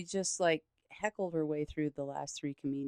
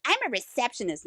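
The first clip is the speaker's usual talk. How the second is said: entitled customer; 8 semitones higher than usual. Retold or imitated. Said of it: "she's like".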